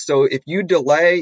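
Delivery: ordinary talk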